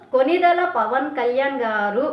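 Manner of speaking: కొనిదెల పవన్ కళ్యాణ్ గారు drawn out slowly with mock respect; mock reverent, slow. Repeating the rival's sarcastic praise of the leader, slow and mocking. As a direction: savour each word of Konidela Pawan Kalyan గారు like a sneer. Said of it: "అందులో కూడా వెటకారం ఉంది".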